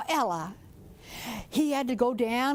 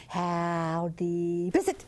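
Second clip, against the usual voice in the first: little peeper frog call; 5 semitones lower, slower than usual. Acted. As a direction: call out like a tiny frog at the creek edge. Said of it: "my grandpa could talk frog talk".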